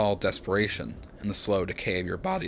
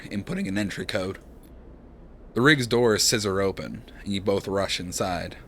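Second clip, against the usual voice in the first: calm second-person narration; story narration. A narrator's reading. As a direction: read the scene like a storyteller.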